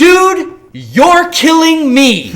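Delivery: very high, very loud, swooping, drawn-out yell. Retelling losing it at a Target worker: retelling own yell. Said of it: "'cause I kinda s-, yelled it".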